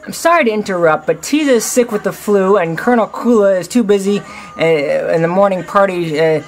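bird voice. Acted. Bird messenger rushing apologies.

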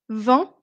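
"vingt" ending on the nasal vowel, T unsounded; silent T. Shown as a demonstration. Teacher contrasts twenty with twenty-one, silent T in "vingt". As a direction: say "vingt" without its final T. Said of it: "Comment je prononce".

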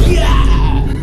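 high, loud whoop; excited shout. Real, not acted. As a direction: whoop with delight. Excited at the height comparison.

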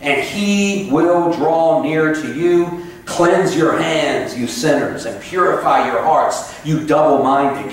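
slow, measured scripture reading; solemn Bible reading from the pulpit. Acted. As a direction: read the verses deliberately, word by word. Reads scripture aloud slowly.

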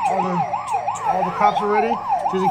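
squeaky high cartoon voice. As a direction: jump way up into a squeak.

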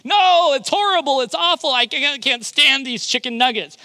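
put-on child wailing over plain chicken nuggets; mock howl. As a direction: imitate a kid refusing his nuggets. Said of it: "he would howl".

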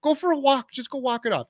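high-pitched, breezy imitation of bad advice; mock dismissive advice. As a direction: toss it off as if illness were nothing. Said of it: "that's like telling someone with the flu".

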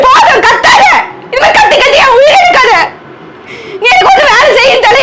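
wife shouting tearfully at her husband; yelling through tears. Acted. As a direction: shout him down, close to tears.

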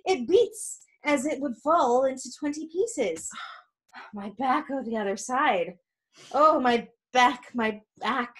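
hammed-up aching groans and gasps; milk every ache to stall; pretending to be worn out. Nurse complaining to Juliet of head and back, feigned suffering. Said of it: "the nurse is pretending to be tired".

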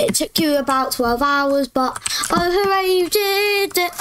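sarcastic high cheer; mock praise, high and sing-song. Mocking sibling's slow success.

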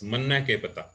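proper Haryanvi phrasing; Haryanvi dialect. Shown as a demonstration. Teacher repeating the example, in Haryanvi dialect. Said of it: "this is proper Haryanvi".

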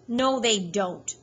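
slow, curt angry denial. Acted. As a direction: bite off the denial. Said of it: "Hal said angrily".

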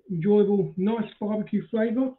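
chewing while talking; eating crunchy snack; mouth full. Real, not acted. Seen 1: Holds scratching at mouth, lips closed, chewing while talking.

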